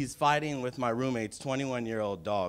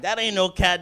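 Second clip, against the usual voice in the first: higher, louder disbelieving cry; the guard gawking at the huge cat; 6 semitones higher, 6 dB louder than usual. Retold or imitated. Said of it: "She's like".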